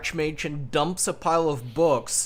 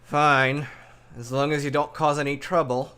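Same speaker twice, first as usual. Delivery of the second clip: loud, reluctant "fine", then a brisk warning; exasperated, grudging consent; 2 semitones higher, 4 dB louder than usual. Acted. Archmage reluctantly lets the visitor in, exasperated. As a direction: give in with an eye-roll. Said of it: "he sighs and rolls his eyes".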